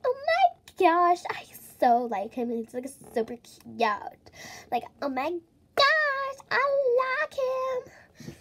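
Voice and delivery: mock a girl with a crush; hammed-up lovestruck squeal; gushing girl impression. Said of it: "And they were like".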